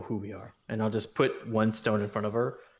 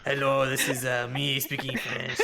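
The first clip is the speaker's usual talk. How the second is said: higher-pitched fake French accent; mock French accent; 3 semitones higher than usual. Shown as a demonstration. Player showing friends his French one, mock French accent. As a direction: put on a comic French accent. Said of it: "speak in your French one".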